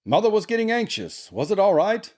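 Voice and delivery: high character voice, rising question; concerned brother. A narrator's reading. Laurie asking after his sister's errand, high and concerned. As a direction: check on her in a high put-on voice.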